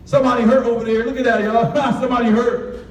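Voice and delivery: gleeful mocking kid pointing at the fire; mocking laughter. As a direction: jeer and laugh like a careless kid. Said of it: "I'm like".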